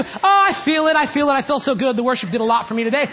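high gushing start that speeds up and drops; mock gushing. Preacher parodying a churchgoer thrilled by worship, mock gushing. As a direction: mildly imitate a self-absorbed worshipper. Mocks a self-centred worshipper.

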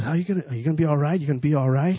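quick, run-together questions; hurried imitation of a checking friend; retold anxious checking. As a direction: rattle off the friend's repeated question.

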